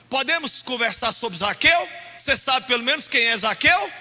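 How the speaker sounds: loud, testy grandfather imitation; half-cross grandpa. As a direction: quiz him with mock impatience. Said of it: "meio bravo, falando sozinho. Aí ele falava assim".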